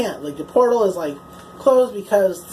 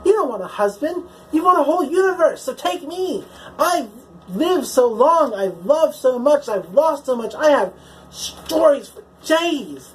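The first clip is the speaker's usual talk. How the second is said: pleading offer; 4 semitones higher than usual. Retold or imitated. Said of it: "the Doctor pleads with".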